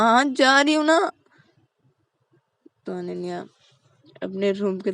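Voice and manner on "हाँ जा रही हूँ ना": annoyed. Acted. Ananya annoyed.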